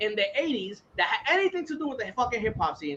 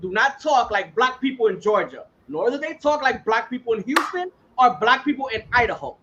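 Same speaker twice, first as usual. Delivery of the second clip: passionate rant; 3 semitones higher than usual. Real, not acted. Host ranting to friends about black accents, fired-up. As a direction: hammer each city home with conviction. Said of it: "he was on a good rant".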